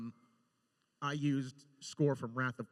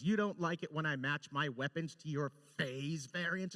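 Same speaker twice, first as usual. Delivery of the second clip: mild mock snarl; 3 semitones higher than usual. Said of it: "And she just snarls it".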